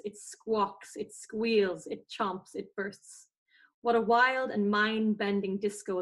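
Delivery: gentle poem read aloud, some words drawn out slowly. Acted. Reading a favourite book excerpt to the podcast host, gentle poem reading. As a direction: savour each word of the nature passage. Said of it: "Can I read a, a poem?".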